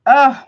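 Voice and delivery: loud high anguished oh; 1 pained cry. Real, not acted. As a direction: cry out in sympathy. Reacting to viewer's pain.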